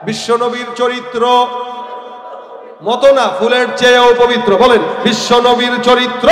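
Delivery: loud call for the crowd's response; rallying preaching. Real, not acted. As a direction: rouse the congregation to answer. (জনতাকে সাড়া দিতে জোরালো ডাক)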